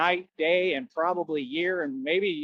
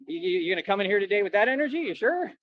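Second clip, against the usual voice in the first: 1 mocking challenge; 3 semitones higher, faster than usual. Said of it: "You, like".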